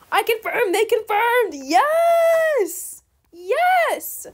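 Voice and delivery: gleeful yes yes over a finished trade; excited cheering. Real, not acted. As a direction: celebrate like you just won. Trade confirmed by both.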